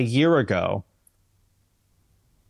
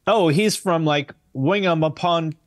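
mock British guess; 5 semitones higher, slower than usual. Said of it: "I could hear you say".

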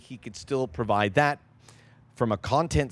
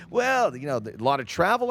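imitated doubters; 4 semitones higher than usual. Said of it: "this is what they say".

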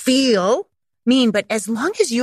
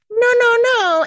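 timid soft-parent reprimand; 5 dB louder than usual. Acted. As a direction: gently plead rather than forbid, pitched way up. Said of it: "very almost asking permission for a reprimand".

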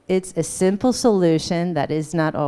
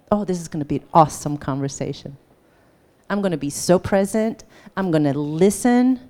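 hopeful optimism. Shown as a demonstration. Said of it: "what if that was the expectation".

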